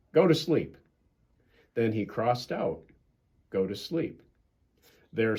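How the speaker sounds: gentle bedtime storybook reading; storybook narration; reading to children. A narrator's reading. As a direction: read it like a bedtime story for kids. Reads a children's story aloud.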